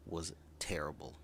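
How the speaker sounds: whispered, as if ashamed; embarrassed whisper. Real, not acted. Vlogger admitting their old voice sounded bad, whispered. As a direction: let it slip out in a whisper.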